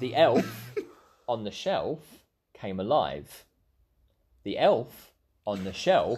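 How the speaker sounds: slow, laughing storybook read; slow wise elder. Acted. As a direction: hold back a laugh while reading. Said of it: "I've got my book".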